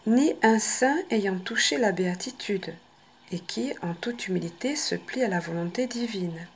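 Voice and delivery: voix posée et intime, avec quelques murmures; lecture de carte inspirée. Acted. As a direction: lis le message comme un oracle. Lit le texte de la carte. (lecture du message de la carte, ton posé)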